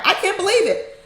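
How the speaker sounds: incredulous laugh through the words; laughing in disbelief. Real, not acted. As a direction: laugh it out, can't believe it. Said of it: "I'm so mad that I gotta laugh".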